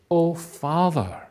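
high, drawn-out call to Father; heartfelt cry. Acted. True believer in crisis calls to Father, high cry. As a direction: call out slowly, voice lifted high. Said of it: "in that very cry".

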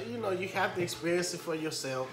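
a light imitation of her unimpressed tone; quoting the wife. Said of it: "she's telling me".

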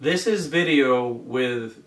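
calling out from far off; projecting to a distant camera; yelling across the room. Real, not acted. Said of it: "I'm yelling across the room to it".

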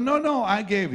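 high, loud flustered protest; insist, alarmed, you did give. Retold or imitated. Protesting to Roy.

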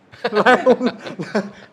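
a big, high laugh that breaks out; loud burst of laughter. Real, not acted. Guest laughing loudly at the abbot's reply. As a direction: laugh out loud at your own punchline.

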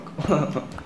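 soft, brief chuckle; short laugh. Real, not acted. Gamer alone in a dark mine, soft short laugh. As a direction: let out a small laugh.

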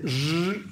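buzzing Mandarin R sound. Shown as a demonstration. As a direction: demonstrate R as in Mandarin. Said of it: "en mandarín es".

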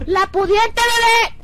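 high, loud sneering snob tone; mock posh girl. Mocking the rich girl.

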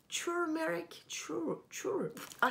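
"turmeric" essayé plus haut, prononcé "tumérik"; tâtonnement. Shown as a demonstration. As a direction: cherche la prononciation de "turmeric" en recommençant "tur-". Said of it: "je sais même pas comment ça se prononce". (essais hésitants sur "turmeric", plus haut)

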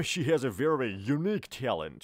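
she has a very unique talent said very slowly; teacher's slowed-down demo sentence; slow model sentence. Shown as a demonstration. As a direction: spell out each word for learners.

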